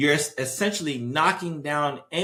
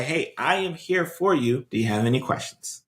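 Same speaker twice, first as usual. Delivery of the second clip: nurturing tone. Shown as a demonstration. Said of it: "you have to talk in this kind of nurturing tone".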